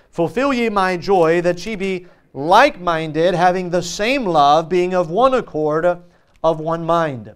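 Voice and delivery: slow, deliberate verse reading; scripture reading. Acted. Preacher rereading the verse for the congregation, measured scripture reading. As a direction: read the verse out phrase by phrase.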